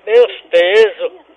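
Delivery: slow loud blurt. Pretend. Prank caller odd loud phrase.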